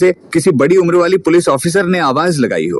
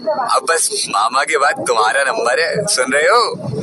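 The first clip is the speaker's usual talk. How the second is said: laughing a little; 4 dB quieter than usual. Acted. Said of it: "थोड़ा हंसते हुए बोली".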